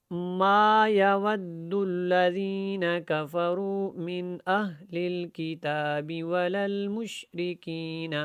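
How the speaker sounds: simple slow chant, little tajweed; modest, straightforward recitation; plain Quran reading. Shown as a demonstration. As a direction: recite evenly without much elongation or ornament. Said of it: "زیادہ تجوید کے ساتھ نہیں پڑھوں گا".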